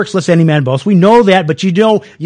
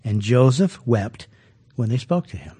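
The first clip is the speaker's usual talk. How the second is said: slow emphasis; 8 semitones lower, 7 dB quieter than usual. Shown as a demonstration. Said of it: "And notice this".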